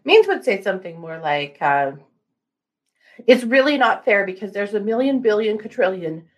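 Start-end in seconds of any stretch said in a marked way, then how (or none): 3.3-6.3 lightly whiny imitation, rising at end; whiny lawyer voice. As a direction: whine like a spoiled lawyer. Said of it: "And a little more whiny voice".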